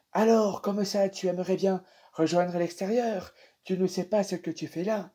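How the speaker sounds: lightly voiced old gentleman, teasing question; old man's voice. Dream's old man quizzing the lost visitor, lightly voiced.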